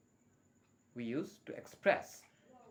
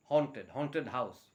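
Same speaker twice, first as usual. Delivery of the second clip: slow model word; much slower than usual. Shown as a demonstration. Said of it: "Just do remember that as well".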